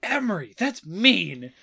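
a hint of reproachful kid; imitated older daughter. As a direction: lightly mimic a child telling off a sibling. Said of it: "my older daughter was like".

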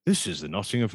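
lightly hammed-up stage actor; a touch of theatrical grandeur; thespian delivery. Suggesting a show intro for Kieran, light mock-thespian delivery. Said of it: "could do some Thesp stuff".

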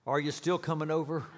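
half-hearted plaintive plea, a touch of hope. Acted. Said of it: "a plaintive voice said".

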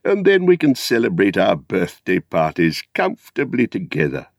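lightly voiced kindly old hobbit; a hint of a fond old uncle; Bilbo. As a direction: invite the lad in, fondly. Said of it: "said Bilbo one day".

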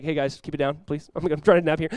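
casual plea after the panic; mildly put-upon. Acted. Sleepy Jesus to panicking disciples, mildly put-upon. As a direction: lightly ask for some hush.

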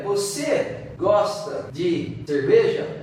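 slow demo question carried by the tune on "cerveja"; slow, deliberate spoken question ending on "cerveja"; question intonation. Shown as a demonstration. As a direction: ask "Você gosta de cerveja?" slowly, with the intonation marking the question. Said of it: "a pergunta vem com uma entonação".

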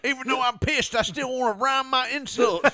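high, loud indignant hick voice; belligerent redneck. Pretend. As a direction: shout like a riled drunk hick. Playing angry redneck.

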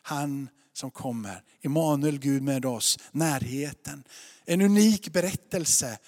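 steady, earnest sermon delivery; measured preacher's teaching voice; preaching. Acted. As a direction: lay out the message to the congregation. Preaching to the congregation.

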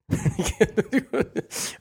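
high-pitched real giggle; tickled, helpless little laugh; amused laugh. Real, not acted. Laughs at the contradicting comments.

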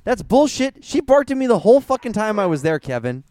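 animated annoyed objection; indignant. Real, not acted. Disputing that the dog never barks.

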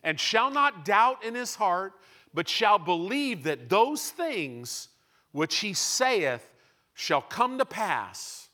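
slow, measured Bible reading; solemn verse read aloud; scripture reading. Real, not acted. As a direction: read each word deliberately. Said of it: "reads scripture slowly".

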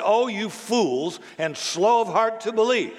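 Jesus insulting. Retold or imitated. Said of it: "And Jesus insulted them".

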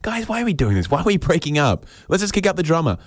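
high, pleading voice, well up in pitch; pleading band member. Acted.

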